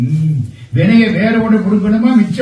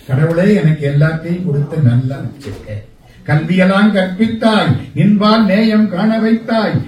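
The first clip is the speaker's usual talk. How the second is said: grateful prayer. Pretend. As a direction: pray as if counting blessings. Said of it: "அப்படின்னு நினைச்சா கண்ணீர் வந்துடும்".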